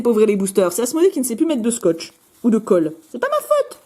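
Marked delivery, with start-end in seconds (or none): 3.1-3.8 high, whiny protest of innocence; mock innocent. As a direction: plead it like a guilty child. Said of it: "Je plaide non coupable". (fausse innocence aiguë)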